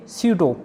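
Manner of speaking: सीडो starting on S, no P; silent P. Shown as a demonstration. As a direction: say सीडो as "syudo", without a P sound. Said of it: "पी silent रहता है".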